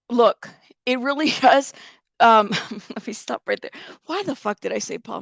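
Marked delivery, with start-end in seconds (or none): 0.1-3.7 laughing through the words; can't stop giggling at her own mistake. Real, not acted. Cracks up at her own slip.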